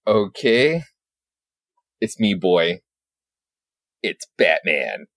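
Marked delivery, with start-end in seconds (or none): 2.0-5.1 low, slow growled line; a dark deep Batman; menacing Batman. Retold or imitated. Unhinged Batman introducing himself to Tim, low.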